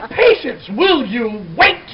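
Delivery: exasperated mock yell at your kid; yelling at a child. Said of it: "yelling at your child and yelling things like".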